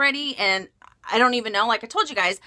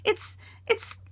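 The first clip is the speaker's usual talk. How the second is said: high whine cracking into a mock cry; hammed-up tearful whining; super whiny; 8 semitones higher than usual. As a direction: wail it self-pityingly, stammering at the end. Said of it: "super whiny and annoying".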